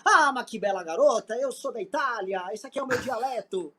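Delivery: lightly put-on Italian charm; Italian accent. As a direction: fake Italian accent in Portuguese. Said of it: "falando com sotaque italiano em português".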